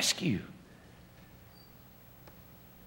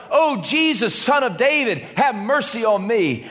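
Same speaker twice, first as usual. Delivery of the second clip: high, pleading call, a bit more urgent; crying out louder; 3 semitones higher than usual. Acted. Bartimaeus calling out again despite the crowd, urgent cry. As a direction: call out over the crowd trying to hush him. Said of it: "he cried out ever louder".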